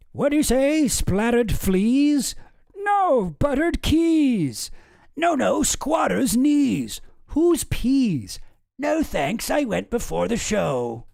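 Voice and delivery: put-on high, loud, slow voice of a confused old man, mishearing every word; deaf old man. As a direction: ham up a hard-of-hearing old-timer straining to catch the words.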